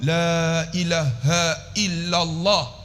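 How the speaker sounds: "la ilaha illallah" very slow, each long vowel held; unhurried teaching demo of "la ilaha illallah" with full lengths; careful, proper recitation. Shown as a demonstration. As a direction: draw out "la" and measure out "ilaha illallah". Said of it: "Sebut elok".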